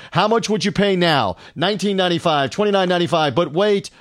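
high, pitchy TV pitchman; infomercial. Pretend. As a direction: sell it like an eighties knife ad. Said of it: "like the Ginsu steak knives ... commercials".

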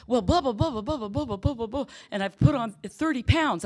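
high, loud singsong babble; mock chatter. Phone volunteer prattling to annoyed newcomer, mocking singsong chatter. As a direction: imitate someone rattling on cheerfully.

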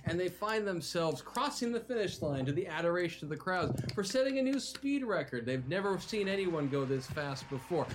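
lively, dramatic scene setting; game master narration. A narrator's reading. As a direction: narrate the action like an epic tale. Game master narrates the arena action.

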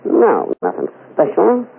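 teasing vamp drawl; Mae West impression. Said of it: "This is Mae West".

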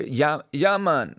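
lightly imitated Jamaican accent; put-on Jamaican accent, slightly lifted. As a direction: quote a Jamaican local in their accent. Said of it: "the accent was exactly".

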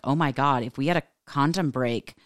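rising alarm in a retold quote; freaked-out retelling. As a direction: imitate a man getting worked up and alarmed. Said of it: "He got really freaked out".

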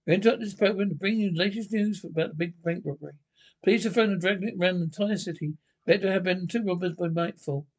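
brisk newsreel voice; old radio announcer. Acted. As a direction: announce the breaking bank robbery news. Radio news interruption.

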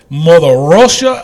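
loud, hammed-up Russian accent; amateur stab at a Russian accent; attempted Russian accent. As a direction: belt it out in a rough Russian accent. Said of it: "that's my best accent".

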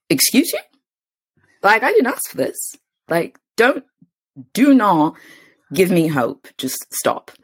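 high-pitched, incredulous retort; mock indignation. Retold woman protesting an unbelievable promise.

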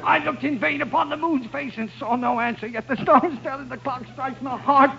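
high, tearful dramatic speech; crying. Acted. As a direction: declaim it while crying from pain. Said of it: "Jim's crying".

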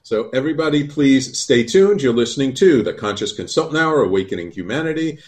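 lifted, projected host announcement; radio sign-off. Real, not acted. Host sending radio listeners to a break, projected announcer delivery. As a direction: announce the show to listeners, stretching key words.

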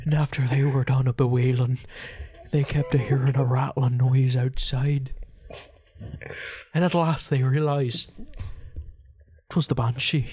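story read in an Irish brogue; Irish accent. Acted. Reading a banshee tale to a co-host, Irish accent.

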